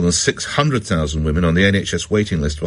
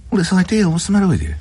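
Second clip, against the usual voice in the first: exasperated retort; 10 semitones higher, faster than usual. Retold or imitated. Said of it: "I looked at it, I said".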